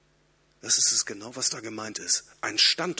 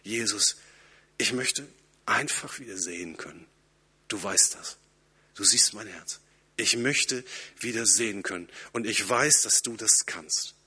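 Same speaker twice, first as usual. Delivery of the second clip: put-on longing like a child; 3 semitones lower than usual. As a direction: plead simply, like a yearning child. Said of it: "wie ein sehnsüchtiges Kind".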